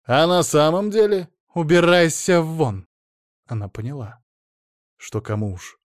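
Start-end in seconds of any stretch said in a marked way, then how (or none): 0.1-1.3 «деле» hit louder and higher, mocking; louder mocking repeat. Ada mocks her ex's question, louder and higher. 1.5-2.9 angry order. Acted. Ada throws ex out.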